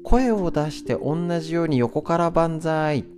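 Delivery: voiced exercise cue. Shown as a demonstration. Host showing how to voice stretch cues, slow instructor call. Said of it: "声出して言うだけでも違".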